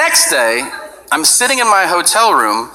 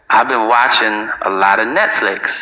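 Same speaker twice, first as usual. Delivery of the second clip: Tyson whisper; 6 semitones lower than usual. Retold or imitated. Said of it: "he whispers in my ear".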